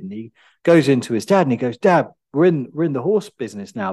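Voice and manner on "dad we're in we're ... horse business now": a lightly voiced, lifted burst of joy; excited son. Son bursting in on his father with news, excitedly. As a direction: blurt the news out to dad, buoyant.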